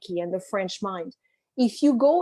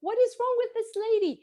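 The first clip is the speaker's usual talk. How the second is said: incredulous outrage; 9 semitones higher, faster than usual. Retold or imitated. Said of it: "And I was like".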